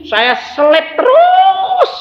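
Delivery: slow, high victorious shout; triumphant exclaim. Real, not acted. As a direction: crow it out in triumph. Triumphant climax of the story.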